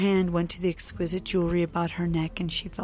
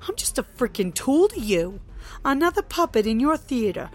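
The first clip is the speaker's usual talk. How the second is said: loud, high furious rant; angry rant; 4 semitones higher, 5 dB louder than usual. Acted. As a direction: tear into him. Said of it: "let her continue her rant".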